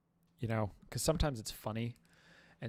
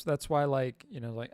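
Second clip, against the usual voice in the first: ordinary talk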